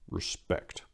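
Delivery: breathy, unvoiced whisper of respect; hushed mock-reverent whisper; whispered aside. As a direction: whisper it like a secret nod. Aside after rock-star line.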